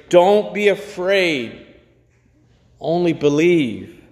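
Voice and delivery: slow, tender "Don't be afraid"; blessed reminder. Shown as a demonstration. Preacher reminding the congregation of the blessed phrase, slow and tender. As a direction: savour it slowly like a blessing. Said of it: "blessed phrase".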